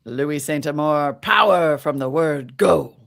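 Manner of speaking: put-on old-time radio ad voice in mid-Atlantic accent. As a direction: read it like a thirties mid-Atlantic announcer. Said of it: "It's either mid-Atlantic ac-, accent or slightly British".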